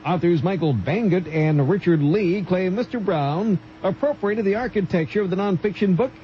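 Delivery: measured radio newsreader delivery; news read. Real, not acted. Newsreader reporting a court case to radio listeners, formal news read.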